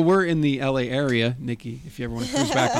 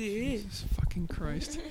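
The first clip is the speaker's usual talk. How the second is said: stunned; 8 semitones higher, 9 dB quieter, much slower than usual. Real, not acted. Awed reaction to picture.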